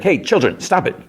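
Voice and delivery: mock scolding. Recapper voicing Murray hushing the bickering pair, mock scolding high. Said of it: "Murray's like".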